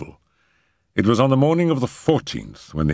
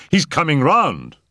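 high, excited announcement; crying out; 10 semitones higher, 3 dB louder than usual. A narrator's reading. Doctor telling Settle the man revives, crying out. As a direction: call out the hope with raised pitch. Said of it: "I cried".

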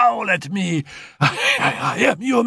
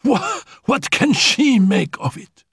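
shrill fury. Acted. Sick Annette rages at Félicie, shouting high. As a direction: spit it at the maid with hatred.

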